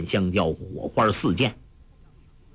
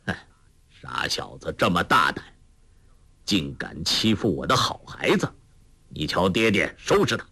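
faint smile; 4 semitones lower than usual. Acted. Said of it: "黄药师微微一笑说".

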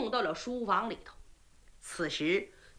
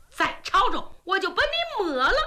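louder, higher threat with the blade at his neck; menacing threat; 6 semitones higher, 3 dB louder than usual. Acted. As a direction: scare him silent. Princess with sword at throat.

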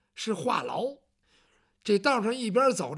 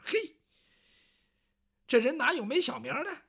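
surprised eunuch; 4 semitones higher than usual. Acted.

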